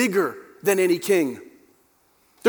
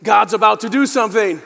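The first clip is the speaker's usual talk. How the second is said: louder, emphatic declaration; like you mean it; 6 dB louder than usual. Shown as a demonstration. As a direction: say it with conviction. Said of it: "say it like you mean it".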